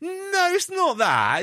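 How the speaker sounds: high, drawn-out wail of denial; mock placating denial. Casting team denying it to the actor, high mock placating. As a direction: imitate flustered people backing away from an accusation. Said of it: "And they went".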